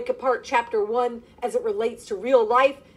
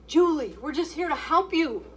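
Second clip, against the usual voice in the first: coaxing; 6 semitones higher than usual. Acted. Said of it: "tried to coax the confused young lady".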